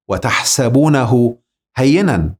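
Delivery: slow, measured Quranic recitation. Shown as a demonstration. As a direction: draw out each word of the verse. Recites a verse slowly. (تلاوة بطيئة)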